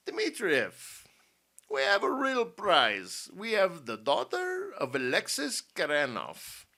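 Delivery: loud, high, theatrical villain; gloating general. A narrator's reading. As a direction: announce the prize with slow relish. The general gloats over his prize.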